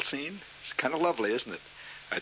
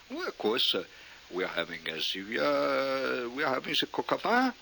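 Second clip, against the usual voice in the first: mock French accent; 2 semitones higher, 4 dB quieter than usual. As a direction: order haltingly in fake French. Resuming French restaurant order.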